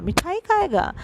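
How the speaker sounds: मिठाई pitched high, खाएगा falling after it; stress on मिठाई. Shown as a demonstration. Teacher repeating the example for pupils, मिठाई stressed high. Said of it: "मतलब मिठाई पे जोर दिया".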